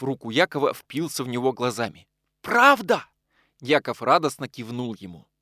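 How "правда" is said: much higher, loud hopeful gasp; can't believe the good news; astonished joy. Acted. Радостная новость об освобождении.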